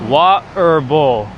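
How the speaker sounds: water bowl without the T, drawn out; attempted British. Shown as a demonstration. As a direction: try hard for British with no T. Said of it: "I'm having a challenging time".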